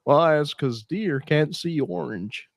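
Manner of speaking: slow, matter-of-fact hunter; a comedian quotes a hunter, slow and deadpan; hunter's deadpan answer. Retold or imitated. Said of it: "And the guy said".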